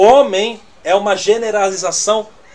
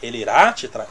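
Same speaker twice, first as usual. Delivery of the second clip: low, doubting repeat of "irá te trair"; incredulous echo; 7 semitones lower than usual. Real, not acted. Preacher doubting the prophecy he quoted, incredulous. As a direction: question it in disbelief. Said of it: "Como assim?".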